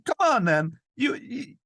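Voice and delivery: very high, foreign-accented comic impression; Borat. Man goading woman, accidental high Borat voice. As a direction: goad her in a silly high voice. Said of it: "why he's turning into Borat".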